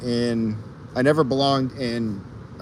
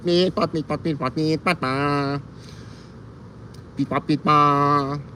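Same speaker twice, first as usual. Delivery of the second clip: K K Slider beeping. Retold or imitated. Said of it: "I can just hear him doing it".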